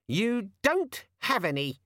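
very high, slow, sulky gadget voice; sulky demon. A narrator's reading. Organizer demon sulking at Vimes. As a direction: pout it out. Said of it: "said the demon sulkily".

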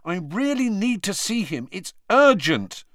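insistent, slowing on urgent; angry. A narrator's reading. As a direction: press it urgently. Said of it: "he said angrily".

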